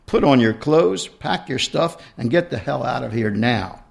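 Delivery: mock yell at the husband; half-hearted yell; mild yell. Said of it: "I yelled".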